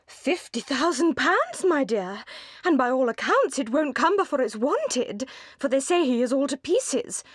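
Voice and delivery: high, chattering busybody matron; high-pitched Mrs Jennings, delighted with her news; gossiping old matron. A narrator's reading. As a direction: relish the gossip like a meddling old lady.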